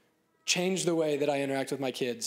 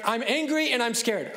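put-on higher, louder child's complaint; voicing the child; 6 semitones higher, 4 dB louder than usual. Upset child telling parent, higher and louder. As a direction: speak as the upset kid. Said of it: "It's like".

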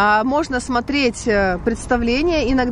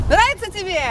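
calling out; 7 semitones higher than usual. Real, not acted. Mother asks playing child if they like it, calling out. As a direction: call the question over to someone playing.

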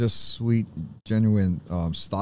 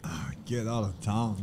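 whispering; 8 dB quieter than usual. Real, not acted. Amazed at the food.

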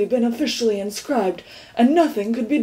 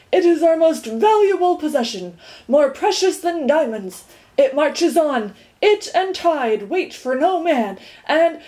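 proud declaiming; 5 semitones higher than usual. Acted. Watchdog standing on the seat making a speech, declaiming. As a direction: proclaim it like an orator. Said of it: "shouting with his arms outstretched".

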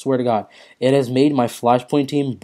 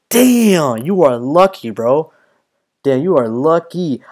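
excited; 3 semitones higher, 5 dB louder, slower than usual. Real, not acted. Envying a lucky pull.

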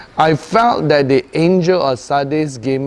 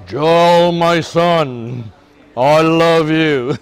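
slow, solemn voice of God, louder at first; God speaking; 4 dB louder, much slower than usual. Acted. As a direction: draw out each word like a gentle divine voice. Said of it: "Okay, like God speaking".

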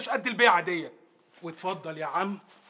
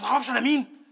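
loud boast; 2 semitones higher, 7 dB louder than usual. Acted. Boasting threat in quarrel.

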